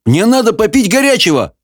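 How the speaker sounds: insist, peeved and whining; indignant demand. A narrator's reading. Wizard insists on a hot drink to Sophie, indignant. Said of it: "возмутился Хоул".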